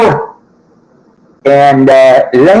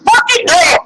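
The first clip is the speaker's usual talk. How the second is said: mock echo; 11 semitones higher than usual. Comic repeats it mockingly.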